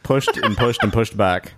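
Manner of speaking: slow mock Boston Mexican accent. Introducing the delayed segment, slow mock Boston Mexican accent. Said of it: "too much shame with my Boston Mexican accent".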